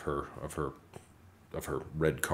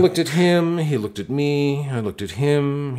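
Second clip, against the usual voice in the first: exasperated comic retelling; 9 semitones higher, 10 dB louder than usual. Retold or imitated.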